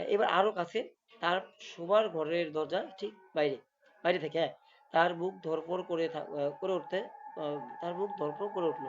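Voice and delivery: slow horror storytelling; suspense story narration. A narrator's reading. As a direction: draw the scene out slowly, pausing between phrases. (ধীরে ভূতের গল্প বলা)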